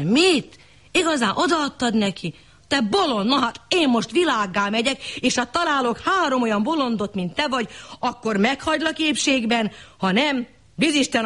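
high, scolding outburst; angry husband. Acted. Husband scolding his wife over the money, high and angry. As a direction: scold her as a fool.

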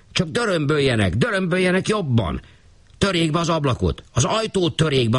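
high, pleading urgency; urgent caretaker. A narrator's reading. Caretaker urging the gentleman to break in, insistent. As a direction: urge them to break the door.

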